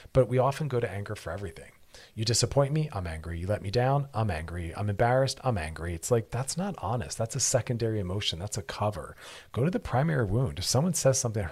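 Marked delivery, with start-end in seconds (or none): none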